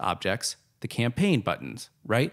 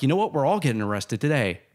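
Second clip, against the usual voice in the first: higher, louder gloating Nick Cage taunt; 5 semitones higher, 4 dB louder than usual. Retold or imitated. Nick Cage taunting the thief from jail, loud and gloating. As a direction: crow at them like a smug trickster. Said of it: "Then he'd be like".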